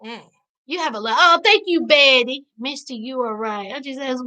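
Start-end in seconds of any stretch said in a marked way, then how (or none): 0.1-0.2 high-pitched, incredulous disbelief; raised, astonished question; incredulous outburst. Real, not acted. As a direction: exclaim it in scandalized disbelief, pitched up. Reacting to how little they get paid.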